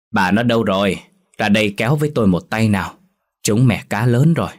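calling out. Acted. Husband calls his wife to help haul the net, loud and eager. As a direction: shout across the boat about the big catch. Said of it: "Ông gọi vào trong".

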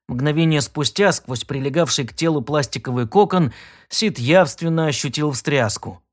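usual speaking voice

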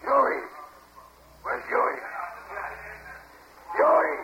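very high rising call across the bar. Real, not acted. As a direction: shout the name to the room. Bartender calls the name across the bar.

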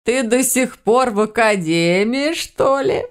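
slow, high question rising at the end; delighted surprise. Acted. Grandmother meets the cat still at the academy, delighted surprise.

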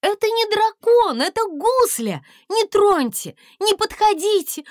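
very high, loud desperate cries; crying out. A narrator's reading. Princess screaming at guards to leave the dragon alone. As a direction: shield him with your voice. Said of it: "с криком выбежала принцесса".

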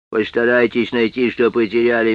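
lisping, s sounds slurred toward sh; a strange, lisping menace; slushy sh for s. Acted. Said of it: "своим странным шепелявым голосом".

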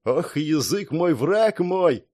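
slow, wry rueful sigh; a touch of bitter humour; bitter smile. Acted. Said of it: "горько улыбнулся парень".

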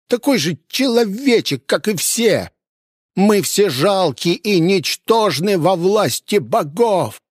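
a cornered man raging at his guest; ranting innkeeper. A narrator's reading. Innkeeper Kurma raging at the hunter, high shrill rant. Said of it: "заорал Курьма".

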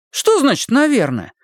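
indignant, stress on «Что»; «Что значит «наверное»?» with «Что» hit hard. A narrator's reading. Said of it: "возмутился Гилель".

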